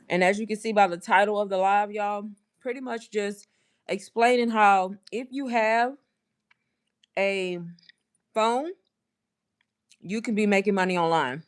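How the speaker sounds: chewing gum. Real, not acted. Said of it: "I should have never put this gum in my mouth".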